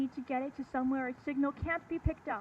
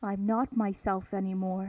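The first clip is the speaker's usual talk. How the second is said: under a spell; 5 semitones lower than usual. Acted. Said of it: "Cordelia under the thrall of a mysterious supernatural voice".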